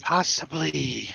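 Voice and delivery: slow, drawn-out spirit voice; ghostly poltergeist voice. Acted. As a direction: let a ghost breathe the word out slowly. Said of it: "a ghostly poltergeisty voice saying the words".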